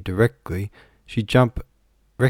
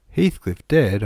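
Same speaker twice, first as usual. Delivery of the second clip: higher, louder, startled question; astonished exclamation; 4 semitones higher, 6 dB louder, slower than usual. A narrator's reading. Visitor hearing news of a death, astonished. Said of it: "I exclaimed, astonished".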